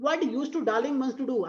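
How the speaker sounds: slow, sing-song poem reading; drawn-out recital voice; poem recitation. Shown as a demonstration. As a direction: read it out like a verse for class.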